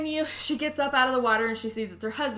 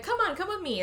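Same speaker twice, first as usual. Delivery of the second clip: put-on girl's voice; 10 semitones higher than usual. Child character quoted in movie retelling.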